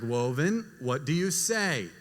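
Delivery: slow, measured parental prompt. Retold or imitated. Mother prompting her silent toddler for thanks, slowly. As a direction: draw out the question for a toddler.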